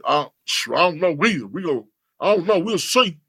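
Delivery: lightly imitated rapper friend; a hint of a rapper's voice, halting; rapper impression. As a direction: mimic a friend stalling for an answer. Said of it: a remark about being killed with the rapper impression.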